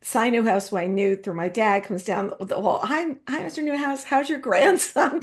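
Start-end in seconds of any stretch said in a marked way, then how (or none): 2.8-5.2 high, slow, overfriendly hallway hello; high eager greeting, drawn out slowly; chummy greeting. Retold or imitated. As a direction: gush at him like an old friend.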